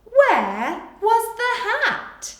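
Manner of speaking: very slow, high and loud dictation; slow dictation read. Shown as a demonstration. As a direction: spell out each word for children writing. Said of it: "You can pause here".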